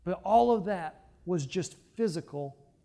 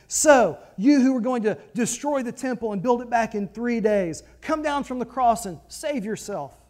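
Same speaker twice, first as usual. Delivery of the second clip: jeering taunt up at the cross, loud at first; mocking insult; 4 dB louder than usual. Passersby taunting Jesus on the cross, jeering. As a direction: sneer the dare to come down. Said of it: "hurled insults at him".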